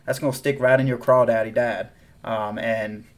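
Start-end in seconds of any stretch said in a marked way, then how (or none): 0.0-1.9 hammed-up southern twang; southern accent. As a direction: lay on a bit of the South. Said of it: "I went back south".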